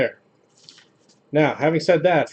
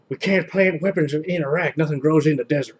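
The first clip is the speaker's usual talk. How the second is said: George W. Bush impression; 3 semitones higher than usual. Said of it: "by impersonating George W. Bush".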